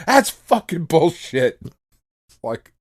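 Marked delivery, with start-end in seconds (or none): 0.1-1.6 slow mock indignant kid, a bit higher and louder; imitating angry daughter. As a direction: reenact the daughter's outburst, drawn out. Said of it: "That was the way my daughter in the car".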